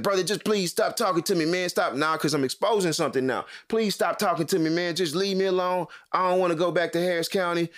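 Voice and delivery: re-enacted pleading, high-pitched; exasperated plea. Man caught lying begs shopper to stop, exasperated plea. Acted plea to be left alone.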